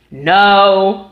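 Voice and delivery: a short, firm mock "No"; flat firm no. Brother refusing the Shikra ride, firm no. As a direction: shut it down in one word. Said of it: "like that".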